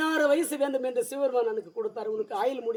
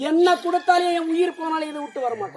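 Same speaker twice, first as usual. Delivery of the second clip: higher-pitched, insistent vow; defiant refusal; 4 semitones higher than usual. Acted. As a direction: refuse firmly as the devoted boy. Boy refuses to leave the lingam. (பிடிவாதமாக மறுக்கும் குரல்)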